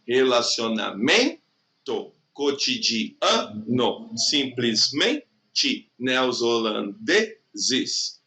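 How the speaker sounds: very slow, drawn-out tonic syllable on each word; calling-out syllables. Shown as a demonstration. Teacher calls out words to find the tonic syllable, prolonged stress. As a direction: stretch the stressed syllable in "Relacionamento, cotidiano, simplesmente, neozelandeses" as if calling someone. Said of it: "como se estivesse chamando a pessoa".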